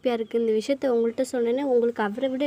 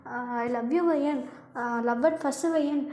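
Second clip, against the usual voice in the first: slow mocking echo; much slower than usual. Girlfriend mocking boyfriend's earlier love confession, slow and bitter. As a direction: drag out his old love lines slowly in mockery.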